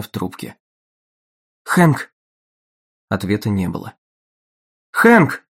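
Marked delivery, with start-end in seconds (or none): 1.6-2.1 calling his name louder into the phone; urgent call. A narrator's reading. Dagny calls Hank on the silent line, urgent call. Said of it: "в ужасе закричала Дагни". 4.9-5.4 high, loud cry of terror; terrified scream. A narrator's reading. Dagny hears only silence from Hank, terrified scream. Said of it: "в ужасе закричала Дагни".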